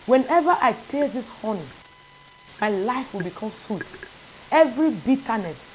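building, declaring prayer over the honey; fervent prayer. Acted. Preacher leading listeners in prayer, growing fervent. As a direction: pray with rising conviction.

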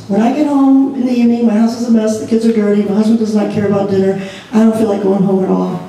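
quick, mildly irritated complaint. Shown as a demonstration. Wife listing her grievances at home, mildly irritated. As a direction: rattle off the complaints, annoyed. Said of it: "I just said it in an irritated way".

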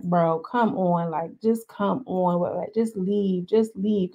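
slow, soft, weary security guy telling her to leave; tired bouncer. Retold or imitated. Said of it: "Andrea comes out like".

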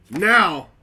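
loud, high announcing shout; dramatic reveal shout. Real, not acted. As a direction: belt it out like a big reveal. Dramatic bag-opening reveal.

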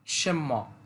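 "সেম্য" said shem-mo in second tone. Shown as a demonstration. Teacher telling learners the tone, "সেম্য" in second tone. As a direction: model the Chinese second tone on "সেম্য". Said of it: "second টোনে বলতে হবে".

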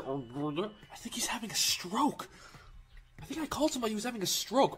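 amused disbelief. Real, not acted.

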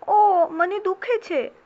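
high, drawn-out "ow, it hurts"; acted cry of pain; pained plea. Pencil bitten, cries in pain.

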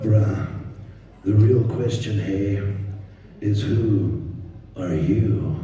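low, loud Capetonian riddle; Capetonian Rafiki. Acted. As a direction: deliver it in pieces as a Capetonian mystic. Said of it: "which character shall I do as a Capetonian".

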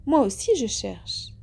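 slow, hesitant reply, a touch embarrassed. Acted. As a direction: drag the words out, a little ill at ease. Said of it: "un peu gênée". (lente et un peu gênée)

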